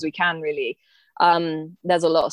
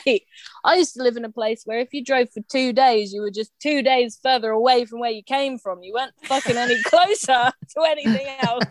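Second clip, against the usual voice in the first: a touch higher, exasperated retort; lightly voiced Aussie scoff; 5 semitones higher than usual. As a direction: set them straight, laughing at the end. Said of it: "I was like".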